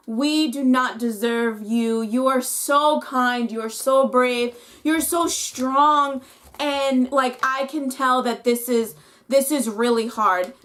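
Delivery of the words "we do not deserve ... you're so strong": slow, admiring praise; tender praise. Retold or imitated. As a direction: speak it slowly with awe. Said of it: "I am literally just like".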